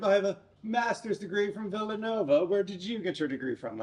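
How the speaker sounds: put-on snooty British accent, nose in the air; pretentious British accent. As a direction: play the Villanova snob in posh British. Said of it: "pretentious British accent".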